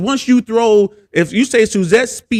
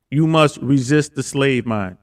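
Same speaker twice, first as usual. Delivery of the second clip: slow, weighty quote of a slogan; host repeats a slogan from Andrew Tate, slow and deliberate; quoting Andrew Tate; 4 semitones lower than usual. Retold or imitated. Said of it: "He says this all the time".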